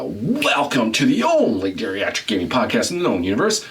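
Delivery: swooping mock announcer welcome; show announcer intro. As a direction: restart the grand podcast opening. Second take of show intro.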